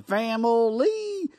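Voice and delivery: hammed-up Southern drawl, stretched out; mock a badly faked Southern accent. Co-host mocking Brian Kelly's viral speech, bad Southern accent. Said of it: "did a bad Southern accent".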